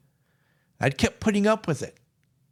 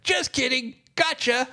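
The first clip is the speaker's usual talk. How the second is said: playful tease; 8 semitones higher than usual. Retold or imitated. Psychologist teases him back.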